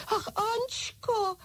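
very high, slow pleading cry. A narrator's reading. French doll begging Ančka, high slow cry. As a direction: wail her name in fright. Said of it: "křičela malá Francouzka".

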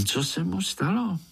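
put-on high eager child's question; little spider asks uncle what happened, high; curious question. A narrator's reading. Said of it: "zeptal se Pája".

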